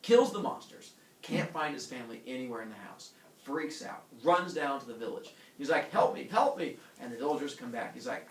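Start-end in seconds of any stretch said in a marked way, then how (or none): 5.9-6.8 high, loud mock plea; cry for help. Heracles running to the village, high pleading panic. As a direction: call out in comic desperation.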